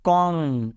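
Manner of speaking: "कॉम" said as "kom", the b left silent; silent b demo. Shown as a demonstration. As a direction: say "कॉम" with no b at the end. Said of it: "कॉम्ब नहीं पढ़ते इसको". ("कॉम" में b silent रखकर)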